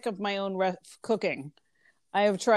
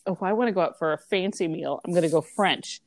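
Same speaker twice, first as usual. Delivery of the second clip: quick, lightly put-on voice of a fancy-food snob; mock fancy diner; 3 semitones lower, faster than usual. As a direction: breeze through it like a half-joking food snob. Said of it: "French is always like".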